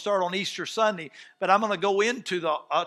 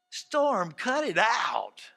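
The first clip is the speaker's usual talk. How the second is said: calm command; much slower than usual. Acted. Jesus calmly commands the storm.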